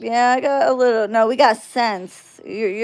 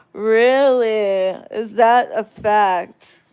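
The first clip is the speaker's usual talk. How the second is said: mock surprise; 4 dB louder, much slower than usual. Answering a rumor in chat.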